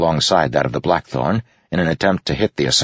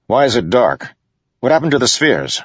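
higher, urgent questions; startled, demanding to know what happened; alarmed; 8 semitones higher, 3 dB louder than usual. A narrator's reading. Adolin alarmed by sudden darkness.

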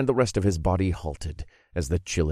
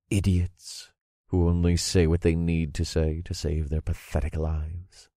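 menacing villain. Acted. Villain menacing captive low.

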